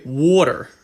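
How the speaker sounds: water with a rounded o vowel, falling; other people's pronunciation. Retold or imitated. Imitating what people say, o-sounding water. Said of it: "I hear a lot of people say".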